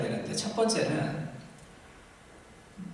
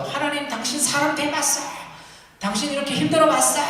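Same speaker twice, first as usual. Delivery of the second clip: raised, higher voice of a man protesting to God; angry prayer; 8 semitones higher than usual. Acted. Job protesting to God in an acted angry cry. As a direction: cry out your grievance at heaven, half-acted. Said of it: "하나님을 향해서 분노하는 기도".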